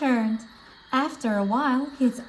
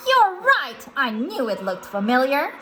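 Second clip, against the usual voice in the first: SpongeBob; 2 semitones higher, 4 dB louder than usual. Acted. SpongeBob recognizes the monster's face, sudden realization.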